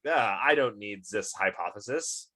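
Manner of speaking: put-on a faint unplaced foreign accent on Laplace; lightly mock Laplace in a vague foreign accent; barely-there foreign accent, playful. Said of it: "I don't know why he has an accent".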